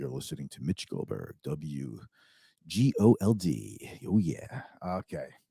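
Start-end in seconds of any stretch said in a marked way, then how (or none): 0.0-4.0 very low, slow, silky jazz radio DJ voice. Praising how clear and smooth he sounds on his show: smooth jazz radio voice. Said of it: "I could do like a jazz radio".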